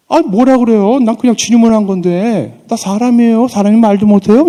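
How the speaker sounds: loud, high indignant comeback; talking back. Retold or imitated. David snapping back at his scolding brother, loud and indignant. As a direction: fire it straight back at your brother. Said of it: "다윗이 이렇게 형에게 맞받아치고요".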